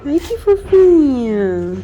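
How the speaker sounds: slow, drawn-out coo. Real, not acted. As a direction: melt over the kitten slowly. Cooing over kitten. (arrulho lento e derretido)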